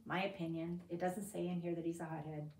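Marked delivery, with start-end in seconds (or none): 0.1-0.8 my still leading, said lower and quieter; softer repeat. Shown as a demonstration. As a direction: drop back, my opinion as an aside.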